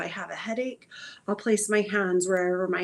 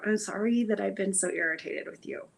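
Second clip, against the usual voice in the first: soft apology to the body; 2 semitones lower than usual. Acted. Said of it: "first of all, maybe".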